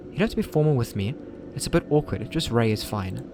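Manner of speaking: put-on young woman voice. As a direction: play the friendly senior girl. Same girl character again.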